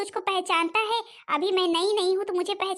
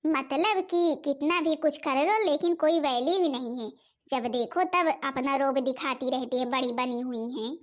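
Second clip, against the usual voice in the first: resentful grumbling; 2 semitones lower than usual. Acted. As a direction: complain to yourself as you leave. Stepmother grumbles to herself, leaving. (मन ही मन कुढ़कर बड़बड़ाते हुए)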